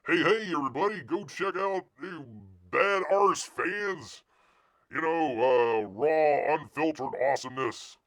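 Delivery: hammed-up bro hype; hyped-up hype-man impression. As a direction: ham up a brash promo pitch. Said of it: "Compared to".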